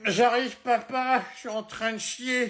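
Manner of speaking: high-pitched yell from another room; calling back. Acted. Child answering dad from the toilet, yelling back. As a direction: holler back, put out at being hurried.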